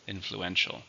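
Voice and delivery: "Influential" with the stress on EN; stress on third syllable. Shown as a demonstration. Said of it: "the stress is on the third syllable".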